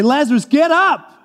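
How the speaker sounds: authoritative summons without anger; loud calling out. Acted. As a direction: call out to rouse him, pitch lifted. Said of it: "but it's a loud voice".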